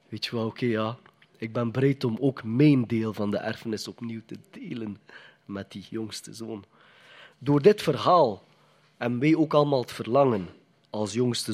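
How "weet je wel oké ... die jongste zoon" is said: softer, slowing, gentle offer; generous brother. Retold or imitated. Good brother offering to share his inheritance, soft and gentle. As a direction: make it a kind, yielding offer. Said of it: "Een goede broer zou zeggen van".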